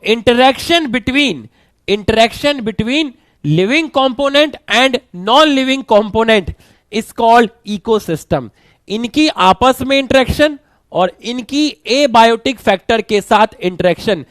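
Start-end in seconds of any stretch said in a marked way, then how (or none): 0.1-8.5 very slow, spelled-out note-taking pace; slow dictation. Acted. Teacher dictating a definition for students to write down, very slow. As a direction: dictate it word by word for notes.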